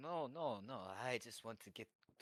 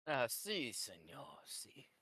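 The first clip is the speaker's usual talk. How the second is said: bad Spanish accent; 2 semitones higher, 4 dB louder, slower than usual. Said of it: "horrible Spanish accent".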